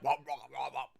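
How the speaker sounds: a mock cough in repeated nonsense syllables; imitated flame coughing. Game master demonstrates coughing on flames, mock sputtering. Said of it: "literally just coughing on flames".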